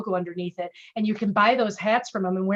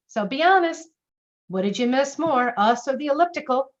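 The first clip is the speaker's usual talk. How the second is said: playful jab, pitched up and louder; teasing; 3 semitones higher, 3 dB louder than usual. Shown as a demonstration. Gym staff ribbing a returning member, playful tease. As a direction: tease the member about the elliptical. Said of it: "A little bit of teasing in there".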